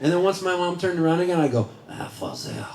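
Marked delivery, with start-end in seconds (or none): 1.9-2.6 put-on low, snooty French accent; snotty French accent. Child secretly praying in church to crack up sister, snotty French accent. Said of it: "snotty French accent".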